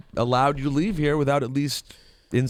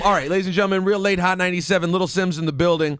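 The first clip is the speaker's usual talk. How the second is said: quicker, slightly raised hype intro; radio host's show intro; radio announcer; 5 semitones higher, faster than usual. Acted. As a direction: introduce the guest to the listeners. Radio host introduces guest.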